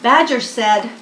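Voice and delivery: lively picture-book reading; reading to children. A narrator's reading. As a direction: read it like a bedtime story for little ones.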